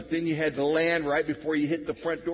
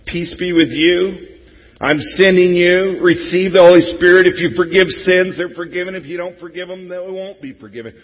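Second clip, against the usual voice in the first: proclaiming Jesus; 5 semitones higher, 14 dB louder than usual. Retold or imitated. Pastor voicing Jesus sending out his disciples, loudly proclaimed. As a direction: boom it out like a commissioning. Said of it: "And then he commissions them".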